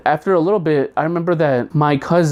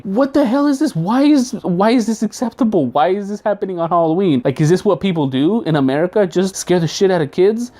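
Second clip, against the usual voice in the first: high panicked yelling, easing down by the end; freaked-out yell; 5 semitones higher than usual. Retold or imitated. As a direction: yell it like a scared kid who just got grabbed. Screaming kid at scarecrow.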